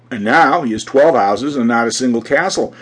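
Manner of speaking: usual speaking voice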